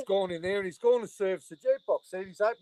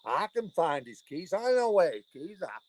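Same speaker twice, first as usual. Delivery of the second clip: lightly voiced pleading woman; 4 semitones higher than usual. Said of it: "She going".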